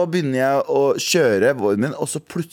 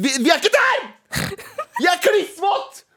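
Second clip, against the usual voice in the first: much higher, indignant complaint; exasperated outburst. Real, not acted. Exasperated rant about being soaked.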